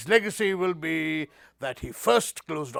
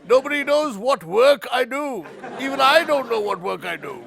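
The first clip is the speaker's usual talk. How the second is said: louder and higher, mock offended at the word work; mock indignant outburst; 8 semitones higher, 6 dB louder than usual. To the host asking about his work, mock indignant outburst. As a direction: throw up your hands in fake outrage. Mock outrage at being asked.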